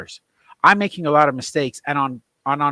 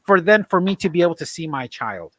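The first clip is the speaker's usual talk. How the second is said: outraged disbelief; 6 semitones higher, 3 dB louder than usual. Real, not acted. Outraged question continues.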